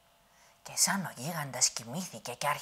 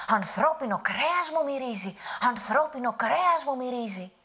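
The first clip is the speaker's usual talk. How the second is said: high, loud booming roar; giant shouting; 8 semitones higher, 6 dB louder than usual. Acted. Angry giant storms through the rooms, shouting. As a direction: bellow it through the palace. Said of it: "και να φωνάζει".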